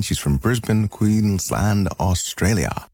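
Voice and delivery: put-on a quick, half-hearted Aussie accent on the place names; bad Australian accent. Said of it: "that was a bad attempt at an accent".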